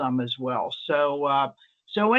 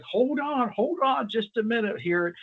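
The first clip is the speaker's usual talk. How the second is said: urgent plea to wait; 7 semitones higher than usual. Retold or imitated. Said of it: "I'm like".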